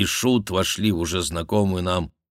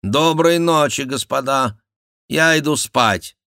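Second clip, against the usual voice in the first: king's goodnight; 9 semitones higher, 7 dB louder than usual. Acted. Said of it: "сказал король".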